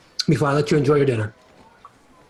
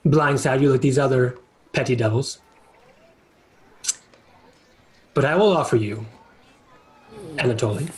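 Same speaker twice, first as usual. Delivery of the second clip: lower, unhurried tempting devil; sly devil; 3 semitones lower than usual. Acted. Devil tempting Anatoly and Judgment, low and sly. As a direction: savour the bait like a patient fiend. GM voices devil offering deal.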